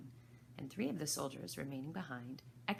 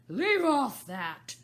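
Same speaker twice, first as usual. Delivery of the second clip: high, loud, slow scream; the Queen screams at the bowing gardeners; 9 semitones higher, 14 dB louder, much slower than usual. A narrator's reading. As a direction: shriek it, furious. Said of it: "screamed the Queen".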